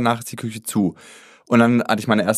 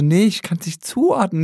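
panicky; 8 semitones higher than usual. Retold or imitated. Quoting herself to husband panicking.

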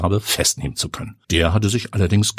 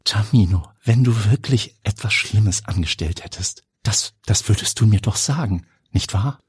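tender aunt's voice; 2 semitones higher than usual. Acted. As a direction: coax him gently like a loving aunt. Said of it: "zärtlichste Tantenstimme". (zärtliche Tantenstimme)

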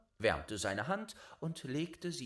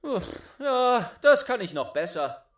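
higher, louder, quick bragging; mock-effortful boast; 11 semitones higher, 12 dB louder than usual. Boy brags he can beat the giant's blow, loud and high. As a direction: scoff and brag.

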